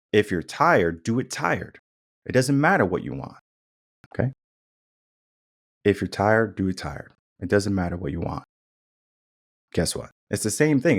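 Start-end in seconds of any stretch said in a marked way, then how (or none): 0.1-3.4 gentler, lilting coaxing tone; sugar way. Shown as a demonstration. Coach giving tough advice the sugar way, sweetly. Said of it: "there's a sugar way and then there's a spice way". 5.8-8.4 spice way. Shown as a demonstration. Coach giving tough advice the spice way, firmly. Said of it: "then there's a spice way".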